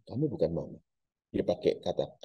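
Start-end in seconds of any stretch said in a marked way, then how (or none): 0.1-0.8 hushed, holding back, a calm refusal; quiet firm denial. Acted. The son quietly tells the ghost it isn't his mother, hushed.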